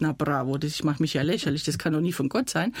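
mock a sceptical inner reply; dry scepticism.

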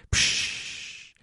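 drawn-out "psch" shush; hushing. Acted. People silence a would-be leader, hushing. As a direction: cut them off with a shush.

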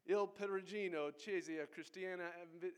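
first, flubbed try at Italian pronunciation of "Il Perugino Chiesa Cristiana"; careful Italian accent that trips on "Ev-"; halting Italian accent, breaks off mid-word; Italian accent attempt. Shown as a demonstration. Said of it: "I'm working on my Italian accent".

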